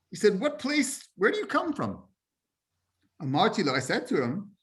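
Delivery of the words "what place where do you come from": curious stranger. Retold or imitated. Voicing stranger in the Mishnah.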